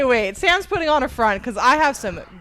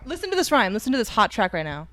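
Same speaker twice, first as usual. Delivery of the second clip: radio DJ voice; 3 semitones lower, 4 dB quieter than usual. Pretend. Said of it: "This is D J K R".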